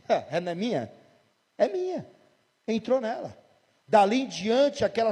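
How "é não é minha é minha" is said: devil claiming. Retold or imitated. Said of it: "Mas o diabo disse".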